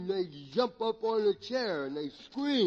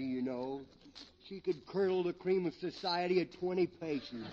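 slurred, tipsy comedy character; comic drunk; 3 semitones lower than usual. Acted. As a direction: play a rambling drunk for laughs. Drunk rambles about wife.

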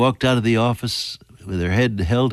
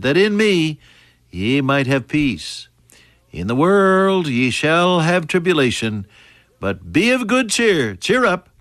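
fervent preaching; 2 semitones higher than usual. Acted. Preaching the verse with cheer ups.

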